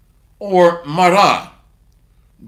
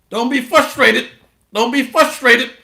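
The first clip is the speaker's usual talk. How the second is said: mocking parrot; 2 semitones higher than usual. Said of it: "Sound like a parrot".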